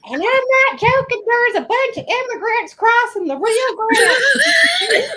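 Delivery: slow, high, laughing Ted Cruz; Ted Cruz impression. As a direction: drawl it out while cracking up. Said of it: "Here's my reenactment of Ted Cruz".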